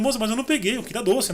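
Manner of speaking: imitating his tearful child self; retold crying. A crying boy pleading with the lady at the door, mock tearful. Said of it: "E eu comecei a chorar".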